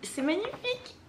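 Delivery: high, delighted admiration; awed delight. Real, not acted. Admiring a friend's handmade drawing, awed delight. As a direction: voice soaring with real wonder.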